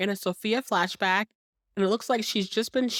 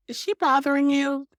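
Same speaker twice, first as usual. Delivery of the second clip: imitating Suzanne; 8 semitones higher, 4 dB louder than usual. Suzanne sweetly asking Piper.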